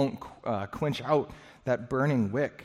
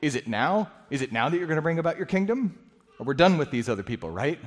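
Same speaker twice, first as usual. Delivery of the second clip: eager disciples; 3 semitones higher, faster than usual. Acted. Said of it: "they say".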